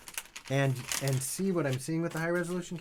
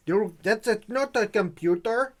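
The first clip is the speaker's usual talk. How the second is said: high, loud mock protest; mocking imitation; 8 semitones higher, 5 dB louder than usual. Mocking the child's earlier objection.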